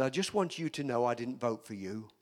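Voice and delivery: low-pitched, unimpressed board member; cool confrontation. Retold or imitated. Board member to new pastor who just walked in, coolly confronting. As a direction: state the objection low and evenly.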